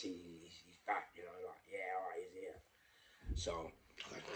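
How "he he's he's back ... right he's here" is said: hushed relief. Retold or imitated. Relieved murmur at bedside.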